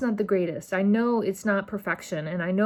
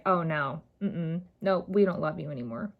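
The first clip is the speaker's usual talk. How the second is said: mock parents; 5 semitones lower, 5 dB quieter than usual. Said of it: "their adoptive parents are like".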